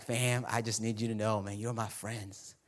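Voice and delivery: low, soft, intimate aside to close friends; hushed, low-pitched sincerity; tender confiding. Acted. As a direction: say it gently, like a quiet heart-to-heart. Voicing Jesus confiding in friends.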